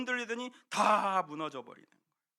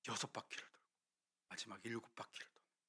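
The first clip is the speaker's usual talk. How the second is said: hushed suspense; 8 semitones lower, 8 dB quieter, faster than usual. Acted. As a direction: drop to a near whisper, low and tense. Building suspense in the story. (숨죽인 속삭임으로 긴장감 있게)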